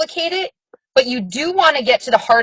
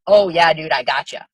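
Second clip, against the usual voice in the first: casual buddy; 7 semitones lower than usual. Retold or imitated. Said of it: "somebody's gonna be like".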